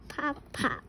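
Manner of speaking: pops dropped to a soft little echo; soft cork pop. Shown as a demonstration. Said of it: "He can sound like a cork".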